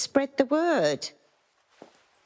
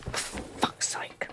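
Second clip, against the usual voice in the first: muttered curse; 7 dB quieter than usual. Acted. Alone after the scene.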